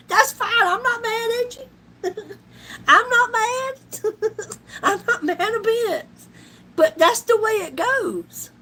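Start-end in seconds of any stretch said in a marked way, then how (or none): 0.1-6.1 higher, laughing through the words. Real, not acted. About the zero tips, laughing it off. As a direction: laugh that you're not mad. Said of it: "It's zero".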